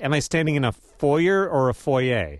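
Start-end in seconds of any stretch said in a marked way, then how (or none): 0.7-1.5 "foyer" as FOY-er, ending in r; "foyer" with a sounded final r; anglicised pronunciation. Shown as a demonstration. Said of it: "pronounced in a French way". 1.5-2.4 "foyer" as foy-AY, no final r; "foyer" ending in an ay sound; French-style pronunciation. Shown as a demonstration. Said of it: "pronounced in a French way".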